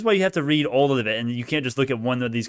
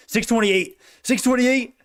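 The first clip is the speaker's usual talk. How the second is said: rising, thrilled call of the price; real excitement, pitched up; excited; 10 semitones higher, slower than usual. Real, not acted. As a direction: cheer the number up as it climbs.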